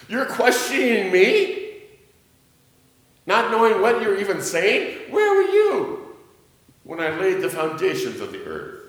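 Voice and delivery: God demanding of Job, voice soaring high; God's challenge. Acted. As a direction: ring out in God's outrage.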